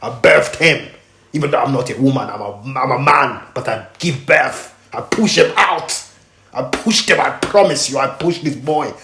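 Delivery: a hint of his father insisting he's the dad; imitating dad. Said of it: "My dad said".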